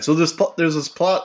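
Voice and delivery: talking around a piece of ice; words muffled by ice in the mouth. Real, not acted. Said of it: "I've got a piece of ice in my mouth now".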